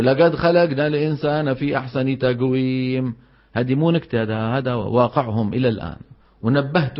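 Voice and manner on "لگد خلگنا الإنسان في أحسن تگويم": "لقد خلقنا" recited lagad khalagna, qaf as g; every qaf a hard g, down to "تقويم" as tagwim; Hadhrami g reading. Retold or imitated. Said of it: "بيقرأوا".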